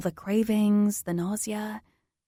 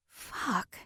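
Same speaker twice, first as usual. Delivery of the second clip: a soft, breathy curse under the breath; 9 dB quieter than usual. Acted. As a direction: sigh the curse out to yourself, deflated. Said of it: "I breathe to myself".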